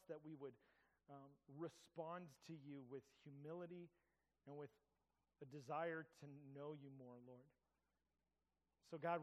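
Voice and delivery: calm, earnest pastoral prayer. Acted. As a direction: lead the room in steady prayer. Leads the congregation in prayer.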